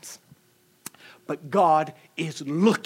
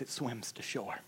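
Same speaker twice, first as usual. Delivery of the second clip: tearful; 7 semitones lower, 18 dB quieter than usual. Retold or imitated. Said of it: "And she would cry".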